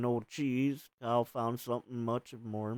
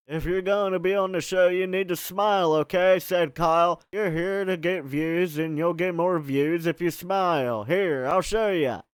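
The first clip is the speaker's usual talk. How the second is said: pushy host Kyle; 3 semitones higher, 5 dB louder than usual. Acted. Kyle pushing Rachel to smile.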